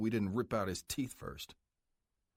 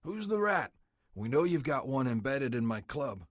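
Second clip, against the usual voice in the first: raised, slightly louder voice for the club president; menacing biker boss; 4 semitones higher, 4 dB louder than usual. Acted. Club president threatening the cartel prisoner, menacing. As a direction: lean in and threaten him coldly like the boss.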